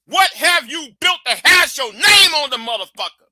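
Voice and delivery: loud, emphatic demand; furious ranter quoting the challenge, loud; shouted question. Real, not acted. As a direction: hammer the question home as a shout. Ranting at his audience.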